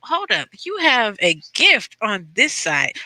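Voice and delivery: slowed-down, mildly surprised realization; imagined teacher's realization. Retold or imitated. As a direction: act out a teacher suddenly noticing talent, drawn out. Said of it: "show us".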